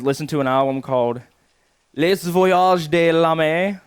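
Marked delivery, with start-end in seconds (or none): 1.9-3.8 slow, loud, higher hammed-up French on an album title; an American over-pronouncing French; mock French accent. Shown as a demonstration. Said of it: "That's how I'm gonna pronounce it".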